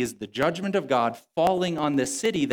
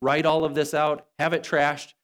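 higher, overly consoling pretend God voice; mock sympathetic God; 3 semitones higher than usual. God as the preacher imagines him comforting a prophet, mock apologetic. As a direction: coddle him like a buddy who's sorry. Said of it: "He doesn't say".

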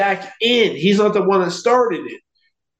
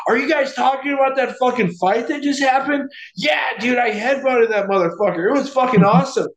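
higher, pumped-up shout of a proud brawler; rowdy bragging shout; 5 semitones higher, faster than usual. Retold or imitated. Drunk brawler shouting to the next table about the fight.

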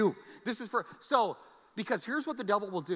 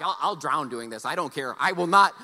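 stubborn vow; 8 dB louder than usual. Retold or imitated. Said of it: "So I'm like".

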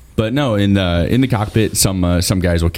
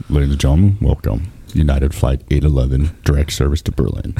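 lower, smooth cabin announcement; pilot announcement voice; 4 semitones lower than usual. Retold or imitated. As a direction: announce it like a pilot over the intercom.

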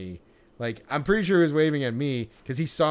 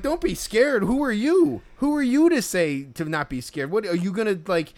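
incredulous; 4 semitones higher than usual. Retold or imitated. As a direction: scoff at the vendor's nerve. Mock retort to the vendor.

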